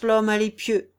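loud "l'homme à l'épieu" as a firm statement; confident recognition. A narrator's reading. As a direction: announce who it is, sure of it. Lord asserts recognition of Thibault. (affirmation forte et assurée)

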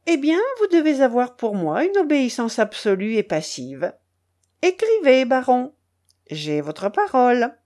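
lightly voiced duchess laying down the law; a touch of haughty insistence; imperious duchess, commanding. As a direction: give orders as his mistress.

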